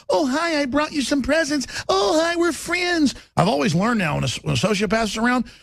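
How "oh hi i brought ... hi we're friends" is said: much higher, sugary fake-friendly voice; fake sweetness. Mocking sociopaths greeting victims, high fake sweetness. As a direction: sing it out falsely sweet.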